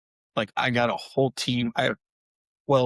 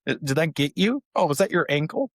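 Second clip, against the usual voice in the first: higher teasing fake sympathy; mock concern; 6 semitones higher than usual. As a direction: taunt the daughter with fake concern. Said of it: "and I'm like".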